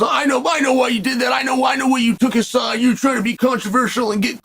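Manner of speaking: Joel's voice yelling at him; retold yell. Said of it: "I let Joel yell at me".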